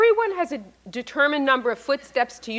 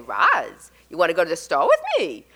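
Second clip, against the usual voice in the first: lightly voiced Brooklyn accent, quick; a hint of a Brooklyn kid calling; 6 semitones lower, 3 dB louder than usual. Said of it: "she really did speak like that".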